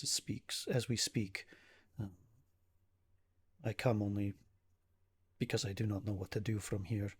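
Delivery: halting formal plea, lightly voiced; a hint of a troubled nobleman seeking help; worried protective brother. Ismark seeks help for his sister, understated worried manner.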